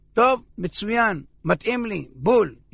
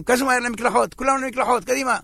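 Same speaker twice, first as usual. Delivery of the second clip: higher-pitched acted hurry-up orders; impatient ordering; 4 semitones higher than usual. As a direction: herd the children along briskly. Grudging father herds children to shower.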